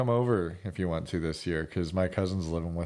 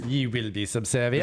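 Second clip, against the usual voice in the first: mock British. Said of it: "British were quite the dicks".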